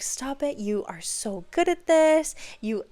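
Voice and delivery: put-on gushing praise for a child; laying it on. Teacher praising little girl's drawings, laying it on. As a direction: pile on the encouragement, stressing each compliment. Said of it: "I laid it on".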